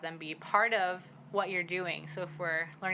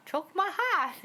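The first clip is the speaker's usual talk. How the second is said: "Chokmaha" pitched much higher at the end; wrong tone demo; 12 semitones higher, 3 dB louder, slower than usual. Shown as a demonstration. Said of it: "with the tone at the end".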